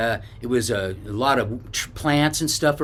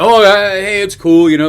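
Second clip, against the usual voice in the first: high, loud, startled backpedal; retold surprise; 8 semitones higher, 11 dB louder than usual. Stranger startled by the yell backs off, acted surprise. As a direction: act caught off guard and back off. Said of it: "that guy was surprised I yelled".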